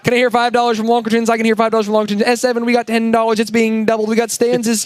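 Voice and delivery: fast auction caller patter; auctioneer. Pretend. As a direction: rattle it off like an auctioneer. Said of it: "I'm like a, an auctioneer".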